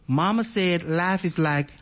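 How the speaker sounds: put-on slow Southern accent from Alabama. Radio host asks listeners to finish the quote, slow Alabama accent. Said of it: "a very distinctive Alabama accent".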